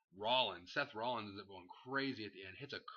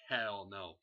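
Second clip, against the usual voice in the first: emphatic refusal; 5 dB louder than usual. Real, not acted. Repeated rhetorical answer.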